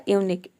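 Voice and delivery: यूनिक ending on a plain K; QUE as "k". Shown as a demonstration. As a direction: say यूनिक as yoo-nik, closing on K. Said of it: "इन तीनों का हो जाएगा क". (यूनिक के अंत में सिर्फ़ "क")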